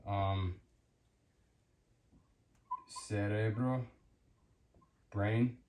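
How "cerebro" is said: "cerebro" starting with an s sound; Spanish "cerebro", soft s opening. Shown as a demonstration. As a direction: say "cerebro" as seh-REH-bro.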